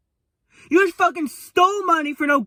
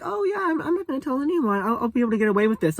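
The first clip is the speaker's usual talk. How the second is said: mocking Angie; 3 dB quieter, faster than usual. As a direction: sneer out her lazy excuse in a put-on voice. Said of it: "You were just like".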